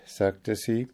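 ordinary delivery, nothing marked

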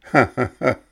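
loud scornful ha ha ha; mocking laugh. A narrator's reading. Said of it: "lachte Mexle".

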